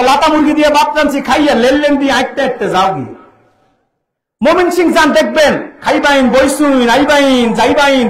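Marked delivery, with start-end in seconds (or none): 0.0-3.1 lightly mocked North Bengal accent, r said as l; preacher showing the congregation how northerners swap r for l, North Bengal accent. Preacher mimics North Bengal speech, r said as l. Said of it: "তারা র উচ্চারণ করতে পারে না, ল কয়". 5.8-8.1 lightly drawn-out Mymensingh endings; preacher mocking Mymensingh verb endings, drawn out; Mymensingh drawl. Preacher shows the crowd Mymensingh speech, stretching the endings. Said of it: "দেখবেন টেনে টেনে কথা বলে".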